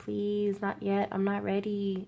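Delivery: slow, imploring, beseeching, begging tone. Acting out people pleading to the Reaper on a tarot card: acted pleading. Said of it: "pleading to the Reaper".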